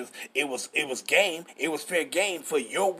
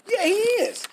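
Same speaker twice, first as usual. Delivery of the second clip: much higher and louder, ringing out; fired-up exclaim; 14 semitones higher, 4 dB louder than usual. Real, not acted. Preacher affirming Mashiach's coming, high and loud. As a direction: shout the confirmation up high. Preacher answers his own point.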